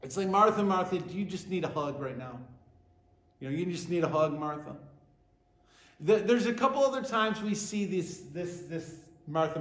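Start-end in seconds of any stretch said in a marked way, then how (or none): 0.3-4.8 like comforting an overwhelmed friend; tender compassion. Acted. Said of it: "he looks at her and he's got compassion".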